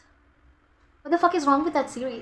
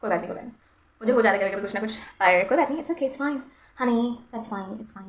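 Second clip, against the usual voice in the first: self-soothing; 2 semitones lower, 4 dB quieter, much faster than usual. Real, not acted. Consoling herself softly.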